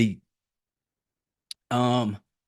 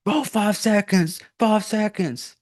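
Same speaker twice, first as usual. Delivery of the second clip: higher, slow, panicky countdown; mock panic; 8 semitones higher, slower than usual. Iris panicking as the timer runs out, mock frantic. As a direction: play her freaking out over the clock. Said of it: "she's sitting there freaking out like".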